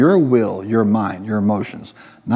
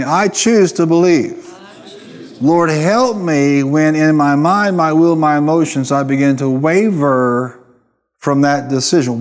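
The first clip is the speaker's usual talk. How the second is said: slow, deliberate, with choose stressed; slow congregational lead; 2 semitones higher than usual. Shown as a demonstration. Pastor leads the congregation in a declaration, slow and firm. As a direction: lead the church phrase by phrase. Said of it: "Say with me".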